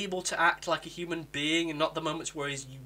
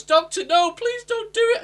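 high, loud desperate cry; hammed-up panic, pitched way up; panicked plea; 9 dB louder than usual. Yaz begging the Doctor not to sacrifice herself, high and loud. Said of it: "Yaz panics and goes".

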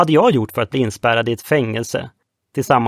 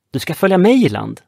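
firm tone; 6 semitones higher than usual. A narrator's reading. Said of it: "sa Joe i bestämd ton".

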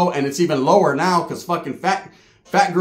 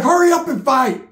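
impatient call; 7 semitones higher, 4 dB louder than usual. Retold or imitated. Urging the fighters impatiently.

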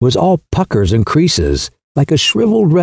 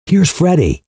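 bland announcement; 5 semitones higher than usual. A narrator's reading. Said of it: "announced blandly".

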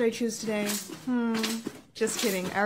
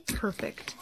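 soft, voiceless aside; satisfied whisper; 7 dB quieter than usual. Acted. Girl plants a gift on frozen dad, whispering. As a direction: whisper it to yourself.

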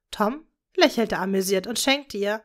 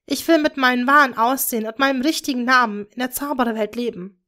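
determined daughter; 2 semitones higher, 3 dB louder than usual. Acted. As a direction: declare your choice. Hermine voiced higher. (entschlossene Tochter, höher)

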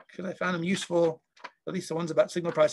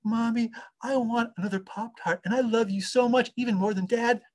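put-on pleading child; 4 semitones higher than usual. Toddler begging for Pop-Tart.

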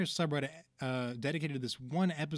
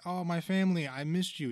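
joyful reunion cry; 5 semitones higher, 4 dB louder than usual. Retold or imitated. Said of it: "he's like".

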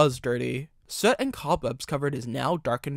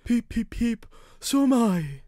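high, piping whistled answer; replying engine; 9 semitones higher, 3 dB louder than usual. A narrator's reading. Henry answering the other engine's signal, high piped reply. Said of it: "replied Henry".

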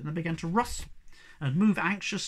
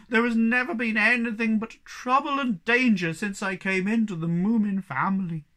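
loud, raised, woeful lament; moaning complaint; 7 semitones higher, 5 dB louder than usual. A narrator's reading. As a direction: moan about your awful luck. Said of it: "he moaned".

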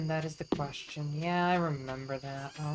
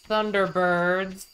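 loud, slow THUNDERBIRDS; loud exclamation; 8 dB louder, much slower than usual. Real, not acted. Player recalls dad's old school show, loud exclamation. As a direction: belt out the title, drawing it out.

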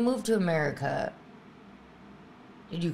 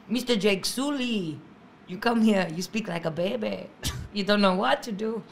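put-on higher, accented movie-character line; Avatar movie quote; 4 semitones higher than usual. Comic telling her old Avatar joke, put-on character voice. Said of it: "movie I don't think people quote enough".

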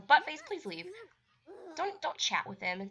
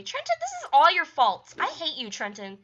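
angry blame; 4 semitones higher, 8 dB louder than usual. Real, not acted. Blaming the intruder.

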